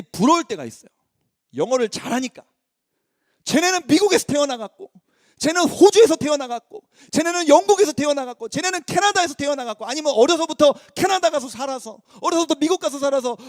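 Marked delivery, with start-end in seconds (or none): 3.4-9.9 louder, heated listing of countries; envious building emphasis. Real, not acted. Preacher listing countries with envy, louder. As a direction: pile up each country with growing envy.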